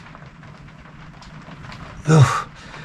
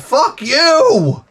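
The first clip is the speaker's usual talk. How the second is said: higher angry retort; 13 semitones higher than usual. Acted. Cursing out the AI, higher.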